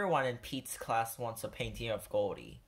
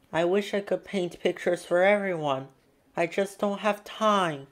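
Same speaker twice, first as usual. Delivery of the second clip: Pete overwhelmed; 5 semitones higher, 6 dB louder than usual. A narrator's reading. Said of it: "he says to his mom".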